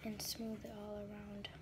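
whispered running commentary; hushed, focused whisper. Real, not acted. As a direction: whisper through the fix. Whispers while fixing broken blush.

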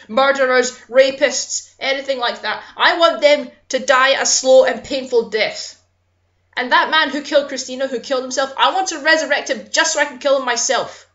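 angry, emphatic venting; real anger. Real, not acted. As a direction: vent real anger at killers. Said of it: "I'm so sorry I'm getting so angry".

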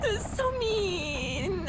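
very slow, tearful complaint; crying. Real, not acted. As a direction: sob out the words, drawn out. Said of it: "I have tears streaming down my face".

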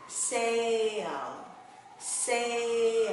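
"sail" stretched long, ending in a clear L; drawn-out final L. Shown as a demonstration. Teacher showing learners the L at the tail, drawn-out "sail". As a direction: say "sail" slowly and push the L up at the end. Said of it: "đánh cái chữ L ở phía đuôi".

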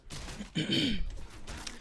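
squeaky throat clear after crack. Real, not acted. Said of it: "Why did my voice crack".

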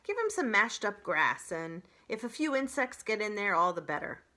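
goose character. Acted. Story reader voices the goose.

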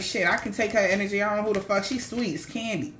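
scheming attacker. Retold or imitated. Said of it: "they was like".

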